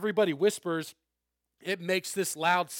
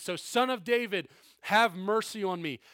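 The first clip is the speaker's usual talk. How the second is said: resolute plea; 2 semitones higher than usual. Retold or imitated. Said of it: "the resolve of Bartimaeus was to say".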